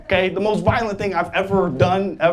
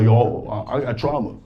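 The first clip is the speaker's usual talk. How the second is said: rapper; 7 semitones lower than usual. Retold or imitated. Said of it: "rappers be talking about".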